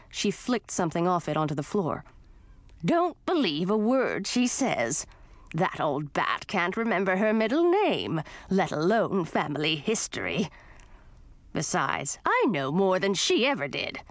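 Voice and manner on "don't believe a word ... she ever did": grumpy witch aunt. Acted. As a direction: snap like a grouchy old witch. Voices grumpy aunt Gracina.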